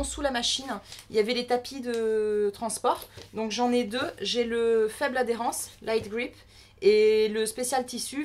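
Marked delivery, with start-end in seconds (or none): 5.8-6.3 English words in a French accent; accent anglais. Real, not acted. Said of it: "mon superbe accent anglais". (anglais avec l'accent français)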